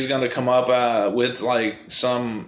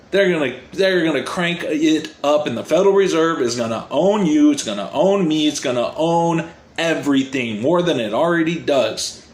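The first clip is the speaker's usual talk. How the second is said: fired up; 3 semitones higher than usual. Real, not acted. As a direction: rant like it truly gets to you. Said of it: "Sorry, I'm getting a little fired up".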